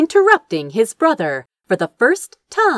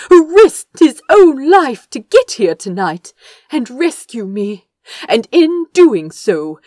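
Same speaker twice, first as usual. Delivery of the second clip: bright-eyed gushing, higher and louder; beaming; 7 semitones higher, 5 dB louder than usual. A narrator's reading. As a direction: gush proudly about the one you love. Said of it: "Azra beamed".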